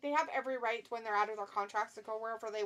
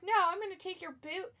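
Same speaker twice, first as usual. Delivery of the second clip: higher-pitched mock trash talk; playful, higher-voiced bragging threat; play-acted wrestler threat; 6 semitones higher than usual. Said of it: "He's like".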